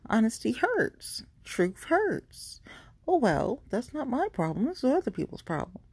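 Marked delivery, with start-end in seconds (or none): 1.4-2.6 breathy whisper, no voice at all; whispered aside. Real, not acted. Host whispers a blunt truth to listeners, whispering. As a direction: let it slip out as a knowing whisper.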